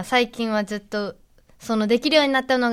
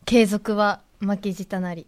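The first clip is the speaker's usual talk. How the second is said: smug proverb; 3 semitones lower, slower than usual. Acted. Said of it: "名言っぽいね".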